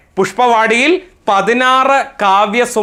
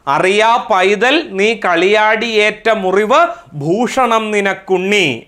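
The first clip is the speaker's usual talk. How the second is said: poem recitation; 2 semitones higher than usual. Acted. Teacher reciting a mother's comforting verse to class, poem recitation. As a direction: recite the verse in a measured, singsong cadence.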